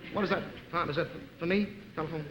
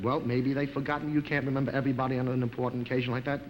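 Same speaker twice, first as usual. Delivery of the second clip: lower-pitched, unruffled imitation; very calm; 5 semitones lower than usual. Wife not invited to the wedding, calmly forgiving. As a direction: excuse them evenly, with composure. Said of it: "She took it very calmly".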